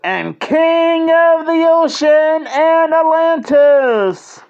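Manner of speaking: high, slow, warbly underwater voice. Pretend. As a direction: talk like you're underwater. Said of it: "that underwater voice".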